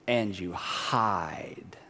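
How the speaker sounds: slow, breathy hush; slow whispered aside. Real, not acted. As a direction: whisper it like a secret. Preacher whispers closing line.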